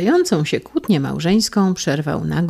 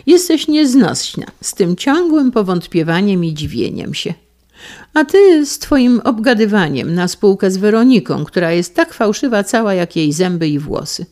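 louder, higher annoyed scolding; a husband scolding his wife, louder and higher; 5 semitones higher, 6 dB louder than usual. Acted. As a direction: tell her off, fed up.

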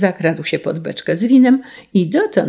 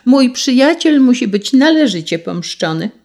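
high, loud, righteous declaration; calling out vengeance; 7 semitones higher, 5 dB louder than usual. A narrator's reading. Sparrow avenges his dead friend, calling out. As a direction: proclaim the vow forcefully. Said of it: "zawołał wróbel".

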